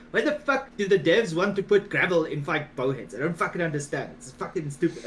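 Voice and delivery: imitated French accent, indignant complaint; Altergash's French accent. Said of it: "in his perfect French Altergash accent".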